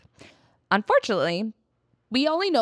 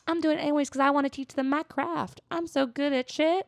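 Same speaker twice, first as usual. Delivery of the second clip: lightly raised, quick bragging voice; cocky retold boast; 8 semitones higher than usual. A hint of Ole bragging about his craft. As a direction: brag a little, hurried. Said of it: "And then he was like".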